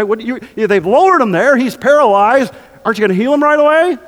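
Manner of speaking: baffled, hurried protest; incredulous. Acted. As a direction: push the question as if it makes no sense. Mock objection from the congregation.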